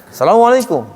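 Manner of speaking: high, arching Arab-style salam falling at the end; Arab greeting intonation. Shown as a demonstration. Teacher imitates Arabs' greeting tone, high Arab lilt. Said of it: "dia nadanya".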